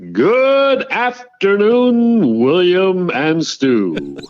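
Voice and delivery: booming, slow stadium announcer; high, loud and drawn out. Shown as a demonstration. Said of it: "that's the P A voice".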